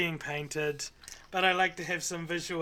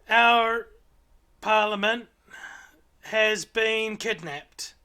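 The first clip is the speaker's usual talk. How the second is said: higher, louder little owlet chatter; 4 semitones higher, 7 dB louder, slower than usual. Acted. Owlet explaining their ruse to the party, higher little creature voice.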